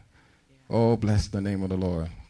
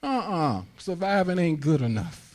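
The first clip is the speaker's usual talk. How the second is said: defiant refusal; 8 semitones higher than usual. Retold or imitated. Preacher and wife refusing.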